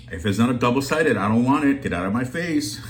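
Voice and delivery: hammed-up, sassy brush-off; mock diva refusal. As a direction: jokingly turn your nose up at a one-sided mug.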